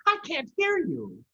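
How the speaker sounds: high, strained deaf man voice; deaf old farmer. A narrator's reading. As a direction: shout like you can't hear.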